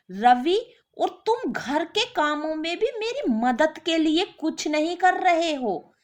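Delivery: wife worn out by housework; tired wife begging for help; complaining wife. Acted.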